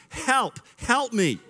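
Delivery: high mock child's scream; playful imitation of a toddler's cry; imitating a screaming child. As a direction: pipe up like a little girl yelling for help. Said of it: "screaming at the top of her lungs".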